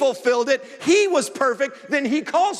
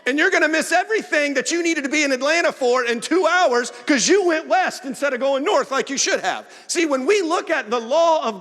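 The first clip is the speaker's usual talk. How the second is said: preaching shout; 5 semitones higher, 4 dB louder than usual. Real, not acted. Preaching warning, rising.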